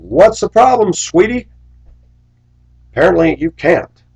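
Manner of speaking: mocking sweetie. Mocking a woman.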